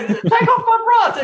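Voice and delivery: high falsetto mum joke; mock mum voice. Host echoing the interviewer's joke, high falsetto mum. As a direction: repeat the gag in a squeaky mum voice.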